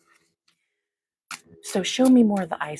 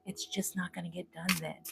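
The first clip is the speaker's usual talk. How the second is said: quiet echo; 11 dB quieter than usual. Retold or imitated. Echoes the voice she keeps hearing, much softer. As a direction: repeat it much softer, fading. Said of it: "I keep hearing".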